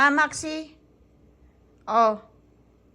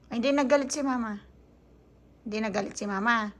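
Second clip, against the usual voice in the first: softer, settling tone; soft reassurance; 3 semitones lower, 4 dB quieter, faster than usual. Real, not acted. Mother reassures crying child she's not angry.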